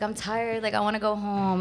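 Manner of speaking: lightly whiny tired complaint; kinda whiny. Retold or imitated. Telling her friend she wanted to go home, mildly whiny. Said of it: "Like, kinda whiny".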